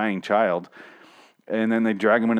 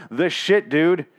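mock shocked Ezekiel; 5 semitones higher than usual. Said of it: "Ezekiel's like".

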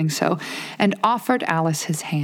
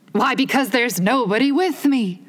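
mild cry; 7 semitones higher than usual. A narrator's reading. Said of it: "cried Humpty Dumpty".

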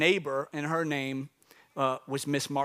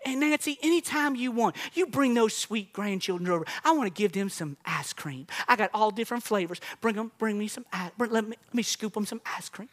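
higher, lightly voiced sweet old lady; sweet old neighbor; 4 semitones higher than usual. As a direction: coax the kids over like a doting neighbor. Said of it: "had an accent".

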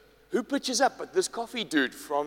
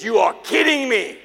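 laughing disbelief; 6 semitones higher, 6 dB louder than usual. Retold or imitated.

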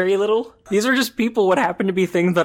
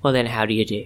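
villain relishing the rhyme; sinister voice; 4 semitones lower than usual. Pretend. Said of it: "You're using your sinister voice".

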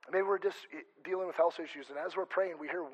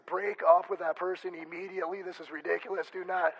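louder, firm rebuke, half joking; stern command; 3 semitones higher, 8 dB louder than usual. Acted. God bluntly orders a dater to break up, loud and stern. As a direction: lay down the law like a fed-up parent. God scolding about bad dating.

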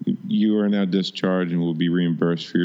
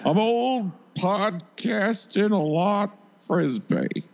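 high, very slow put-on old voice; actor impression; 14 semitones higher, much slower than usual. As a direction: creak it out slowly in a falsetto character voice. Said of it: "that was a pretty good impression".

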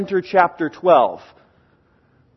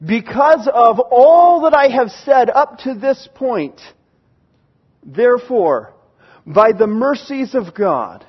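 slow, weighty, raised declaration; emphatic appeal; 3 semitones higher, 3 dB louder, slower than usual. Acted. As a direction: build on every word as Paul pleading. Preacher voices Paul's emphatic appeal.

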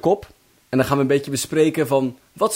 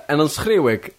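hammed-up lament, stretched out; mock dramatic. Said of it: "En dan schreeuw ik hard".

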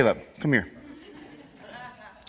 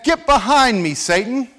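turned to the crowd, raised voice; public rebuke; 5 semitones higher than usual. Retold or imitated. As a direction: call it out so everyone hears. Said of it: "he turned to the others and said".

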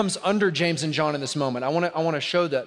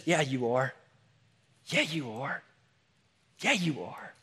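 soft reply; 6 dB quieter than usual. Acted. Jesus answers gently.

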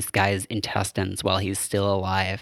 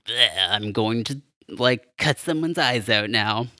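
a hint of a dark menacing villain, slowed down; lightly voiced scary dad, drawn out; evil repo voice. Imitating the killer surgeon's evil voice, lightly done and slowed. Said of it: "dip into evil repo voice where he goes like this".

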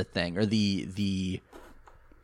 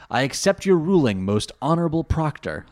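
formal English nerd; 3 semitones higher, 3 dB louder than usual. Retold or imitated. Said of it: "Bastion being like".

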